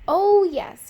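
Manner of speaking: loud contented oh yes; big happy sigh. Acted. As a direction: let out a big relieved oh yes. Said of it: "he said".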